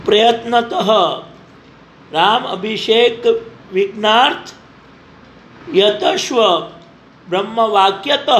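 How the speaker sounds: measured, chant-like Sanskrit verse recitation; shloka recitation. Acted. Preacher opening the Ramayana katha with a chanted verse. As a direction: intone the verse like a scripture reading.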